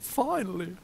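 high, loud Southern belle exclamation; hammed-up Southern belle relief. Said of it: "Southern belle".

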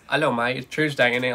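put-on cockney-style British accent; playful British "Tuesday, innit". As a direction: do a cheeky mock British accent. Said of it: "I feel British after drinking from this".

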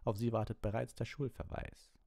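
barked threat in a high, drawn-up voice; high-pitched, stern bark. A narrator's reading. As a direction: bark it like a strict master. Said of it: "bellte Snape".

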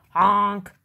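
loud truck horn cry for help; scared honk. A narrator's reading. Dump truck stuck in the mud, scared honk. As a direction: honk out in mock alarm. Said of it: "he sounded scared".

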